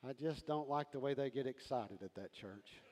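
prissy critic. Retold or imitated. Churchgoer complaining about excited worship, mock grumble. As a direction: sniff at it like a disapproving churchgoer. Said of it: "there's always somebody going".

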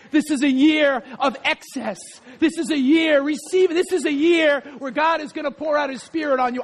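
rising, fervent declaration with a laugh; prophetic proclamation. Real, not acted. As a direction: speak the blessing over them with joy. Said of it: "I don't talk like this all the time".

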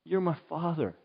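hushed, fading, intimate prayer; soft prayer. Shown as a demonstration. Preacher showing how he prays, hushed and fading. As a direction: pray softly to a father. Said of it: "I say".

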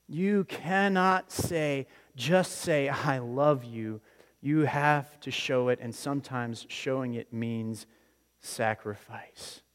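slow, weighty, each phrase set apart; slow emphatic repeat. Acted. Preacher driving the movie's lesson home slowly. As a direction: let the line land slowly and heavily.

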